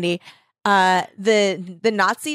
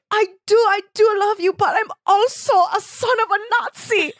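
much higher, louder hammed-up plea; melodramatic lover; 12 semitones higher, 3 dB louder than usual. Son confessing to Linda, hammed-up higher plea. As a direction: overplay the tragic confession.

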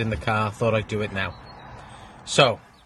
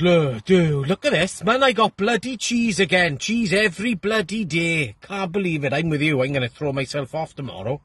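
a lightly voiced Welshman pitched higher; a hint of a Welsh lad, higher and whiny; moaning Welshman; 5 semitones higher than usual. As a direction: grumble it as the fed-up Welsh builder, a bit higher. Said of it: "the Welshman opens his and goes".

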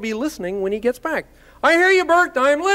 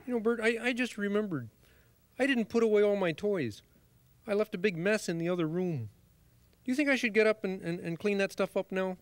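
hushed bedtime voice; 2 semitones lower, 9 dB quieter than usual. Acted. Whispering in bed at night.

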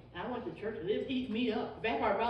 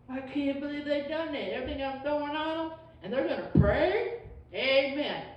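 high, louder furious devil taunt; mad devil; 6 semitones higher, 6 dB louder than usual. Retold or imitated. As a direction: play the devil fuming that they prayed. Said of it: "He gets mad".

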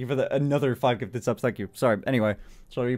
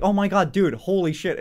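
mock excited fan; 5 semitones higher, 4 dB louder than usual. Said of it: "Because I was, like, expecting to say".

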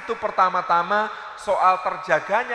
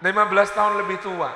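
laughing repeat. Real, not acted. Repeats the age gap laughing.

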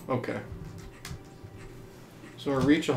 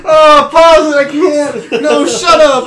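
loud protest breaking into laughter; laughing panic; 3 semitones higher, 7 dB louder than usual. Real, not acted. Player wanting the game paused, laughing panic. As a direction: plead to quit, laughing helplessly. Giving up mid-scare.

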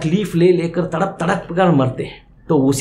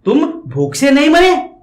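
much higher disbelieving question; doubting Yamraj; 8 semitones higher than usual. Acted. Yamraj questioning the ghost, incredulous. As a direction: challenge the ghost's claim. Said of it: "फिर यमराज प्रश्न क्या कर रहे".

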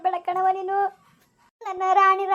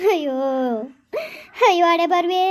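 wailing sob. Acted. Lamenting cruel fate after the son vanished, wailing and sobbing. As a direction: cry out, then dissolve into shuddering sobs.

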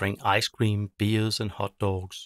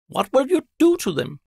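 much higher, louder bird voice; a squeaky magpie asking his witch; curious magpie; 8 dB louder than usual. Acted. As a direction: chirp it like a little magpie. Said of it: "asks Quip".

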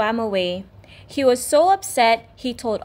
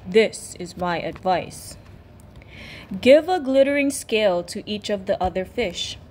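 deep octopus voice; 2 semitones lower than usual. Acted. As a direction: speak like a wise sea elder. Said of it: "said the octopus with a deep voice".

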